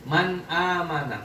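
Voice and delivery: slow "Man amana" with the n of Man distinct before the a; measured recitation of "Man amana", crisp separate n; clear nun. Shown as a demonstration. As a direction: sound the n in "Man" plainly, unmerged, in "Man amana". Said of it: "Dibaca jelas nunnya".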